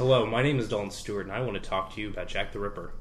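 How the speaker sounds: hushed, ominous documentary host; a hint of a solemn documentary narrator; student film documentary voice. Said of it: "student film documentary voice".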